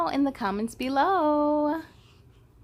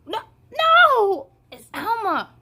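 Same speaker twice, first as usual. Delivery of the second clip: much higher squeal with a laugh; excited high cry; 10 semitones higher, 8 dB louder than usual. Acted. Character cheering for Alma, high excited squeal. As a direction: squeal it with delight.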